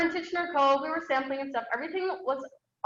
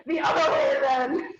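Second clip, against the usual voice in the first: frantic call; 3 dB louder than usual. Retold or imitated. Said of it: "and I'd be like".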